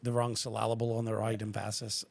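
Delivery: syllable as suh-LAB-ul, emphasis as em-FASS-iss; mis-stress syllable and emphasis on their second syllables; syllable and emphasis with the stress deliberately shifted one beat late; wrong emphasis. Shown as a demonstration. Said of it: "say words with the wrong emphasis".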